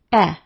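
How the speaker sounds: "eh" as a short, open vowel; short E sound. Shown as a demonstration. Teacher showing the next EA sound to try, short "eh". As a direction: sound out "eh" alone, as in bed. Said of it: "try is short E".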